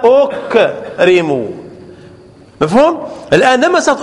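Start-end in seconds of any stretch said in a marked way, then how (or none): 0.0-1.5 أكرم drawn out very slowly, syllable by syllable; teacher slowly revealing the answer أكرم; slowed teaching demo. Shown as a demonstration. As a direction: lay out أكرم slowly as the final form. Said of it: "صارت ماذا".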